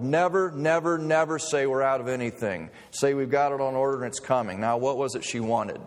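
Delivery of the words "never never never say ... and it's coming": lightly acted snarl, hammering the repeats. Manager lecturing the clerk on customers, mild retold snarl. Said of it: "he snarled".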